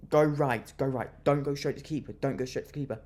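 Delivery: loud first burst, then easing; urgent urging. Acted. Fan willing the player to head it right, urgent urging. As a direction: urge the player on from the stands.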